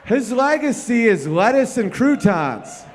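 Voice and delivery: loud, slow, deliberate punchline; punchline shout. Real, not acted. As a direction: hammer each word home.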